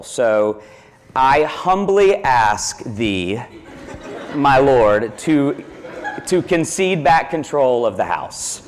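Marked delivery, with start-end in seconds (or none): 1.2-8.6 mock humble plea.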